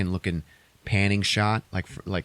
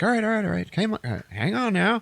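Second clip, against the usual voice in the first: high, hurried hero voice; acted pleading to wait; urgent placating; 13 semitones higher than usual. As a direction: try to halt her panic. Hero trying to settle her panic.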